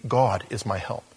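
"God" set out as the strong word, "is my help" dropping after it; stress on God. Shown as a demonstration. Preacher showing the congregation the emphasis, stress on "God". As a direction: put the weight on "God", then let the rest fall. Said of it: "That's why the emphasis needs to be".

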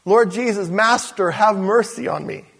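humble prayer. Shown as a demonstration. Believer showing the right prayer to God, pleading. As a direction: pray it humbly. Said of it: "let's go over this again".

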